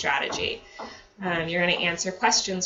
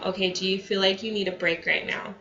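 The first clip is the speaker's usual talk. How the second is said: calm voice. Shown as a demonstration. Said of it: "use your calm voice".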